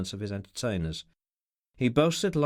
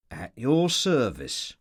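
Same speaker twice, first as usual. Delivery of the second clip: another tone; slower than usual. Acted. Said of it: "in quite another tone".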